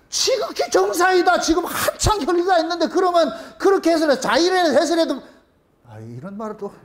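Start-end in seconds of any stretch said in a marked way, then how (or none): 0.1-5.2 lofty pronouncement. Retold or imitated. Pastor retells scolding a worried parent, lofty tone. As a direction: proclaim it like a grand verdict. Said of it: "내가 그래가 되게 뭐라 그랬거든".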